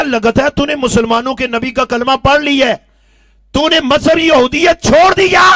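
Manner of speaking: loud, high angry rebuke; angry uncle. Acted. Angry uncle rebuking his nephew, loud and high. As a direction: scold the nephew furiously. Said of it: "چچا کو غصہ آیا".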